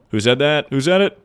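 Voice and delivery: loud, high insistent question; urgent demand. Real, not acted. Streamer demanding chat tell him who said it, loud and high. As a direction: demand to know who, rising.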